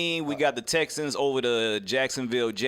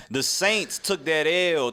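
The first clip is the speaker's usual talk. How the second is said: slow, relished stress on "took that L"; emphatic; slower than usual. Real, not acted. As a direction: lean hard on "took that L", drawn out. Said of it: "You don't have to say that with so much emphasis".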